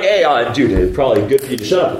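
casual, hesitant nudge; offhand friendly advice, quick at the end; one guy's low-key hint; mild suggestion. Acted. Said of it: "it's not, it's like everybody's".

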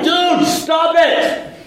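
high, drawn-out shout; slow, high-pitched exasperated holler; crowd's protest. Acted. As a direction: yell it like a fed-up crowd. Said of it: "everybody's coming like".

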